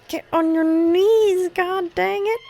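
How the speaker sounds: hammed-up royal scolding at the screen; exasperated mock command. Repeats the demand, more forcefully.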